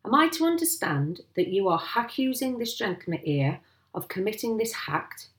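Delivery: lightly voiced village policeman; officious sergeant. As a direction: formally query the accusation, misplaced aitches.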